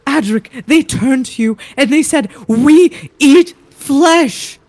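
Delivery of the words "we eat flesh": very slow, heavy menace; zombie voice. Acted. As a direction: drag it out like a zombie. Zombies speak to Adric.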